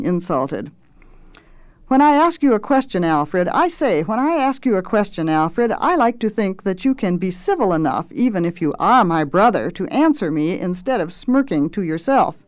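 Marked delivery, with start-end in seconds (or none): 1.9-12.3 lightly voiced affronted sibling; indignant sister. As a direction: scold your brother huffily. Reads the indignant sister's speech.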